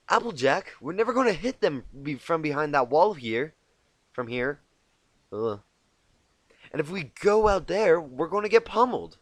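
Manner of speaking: high, loud urgent warning; a worried unicorn insisting the plan fails; Twilight, urgent. Acted. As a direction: Twilight urging Applejack to rethink, high and loud. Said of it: "Twilight felt compelled to point out".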